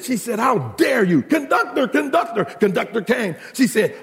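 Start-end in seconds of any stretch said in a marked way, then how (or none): 0.4-2.5 high-pitched mock outrage; livid. Insulted mother calling the train conductor, mock livid. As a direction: call out indignantly, hammed up for laughs. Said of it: "She got livid".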